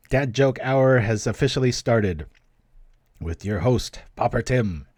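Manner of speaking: lightly put-on announcer intro; mock show host.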